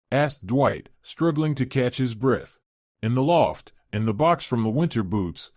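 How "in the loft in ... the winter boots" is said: calm. Acted. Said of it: "Chloe answered calmly".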